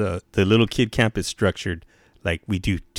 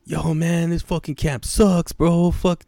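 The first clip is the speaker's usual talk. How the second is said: high tough-guy cholo voice; mouthy teen cholo, pitched way up; cholo kid impression; 9 semitones higher, slower than usual. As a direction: mimic a mouthy wannabe gangster kid. Imitating a wannabe cholo kid.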